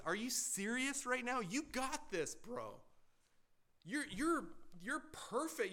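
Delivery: high, bright cheerleading pep talk; mock hype man. Modern church people flattering Moses, hammed-up high pep talk. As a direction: pump him up like an overeager friend. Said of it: "we'd be quick to say something like".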